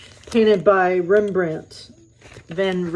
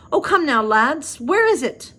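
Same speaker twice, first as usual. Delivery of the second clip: Scottish accent attempt; 7 semitones higher than usual. A narrator's reading. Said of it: "there's supposed to be an accent".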